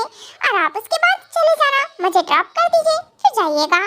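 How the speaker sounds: coaxing plea. Acted. Wife asking husband to drop her home, coaxing.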